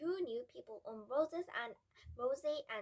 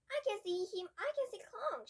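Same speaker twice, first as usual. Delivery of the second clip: loud and high, calling out; excited shout; 10 semitones higher, 5 dB louder than usual. Acted. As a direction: shout it to your friend across the crowd. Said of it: "shouted Max".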